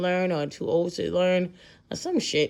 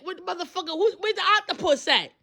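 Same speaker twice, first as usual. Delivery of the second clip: dazed confusion; 11 semitones higher, faster than usual. Retold or imitated. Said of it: "I'm like".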